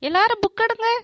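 a lightly voiced stern teacher; teacher ordering the class to sit and open books; strict teacher.

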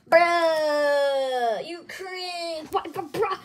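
wailing through tears; crying shout. Acted. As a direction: cry it out loud. Kid bursts out at father.

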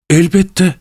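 hurried. A narrator's reading. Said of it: "dedi Pavel Pavlovich telaşla".

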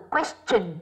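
"question" ending in a clear "chen"; "question" with CH sound. Shown as a demonstration. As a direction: say "question" with a ch in the last syllable, not sh. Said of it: "phát âm thành âm chờ chứ không".

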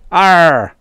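loud, high, drawn-out alien call; happy native cry. A narrator's reading. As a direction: crow with glee. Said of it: "said the native happily".

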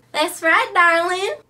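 loud, high Southern belle gushing over darling; a fussy Southern belle who flatters everyone; big, sweet Southern charm; Rhonda Lou. Acted. Rhonda Lou confirms alter ego.

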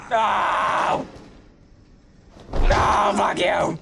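shouted in real frustration; angry shout. Real, not acted. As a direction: yell it at the attacker. Attacked by enemy, shouting.

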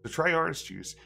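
lightly hammed-up read-aloud; reading a nonsense story to viewers, mildly theatrical; storybook reading. Gamer reading a found book aloud, mild storyteller voice.

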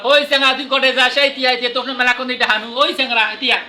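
put-on calling after a boy in Rangpur dialect. Shown as a demonstration. Calling after a boy in Rangpur dialect. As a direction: shout after the boy, village style. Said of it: "এটা ওরে আমরা".

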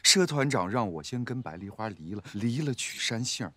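fed-up, mostly low-voiced grumbling; weary, irritated retort; impatient. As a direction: answer as if sick of the questions. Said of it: "你咋这么不耐烦".

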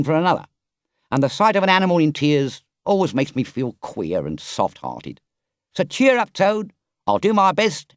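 a lightly voiced grave but kindly driver; grave engine driver. Engine driver deciding to help Toad, lightly grave then kind. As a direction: scold gently, then soften to reassure. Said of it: "looked very grave and said".

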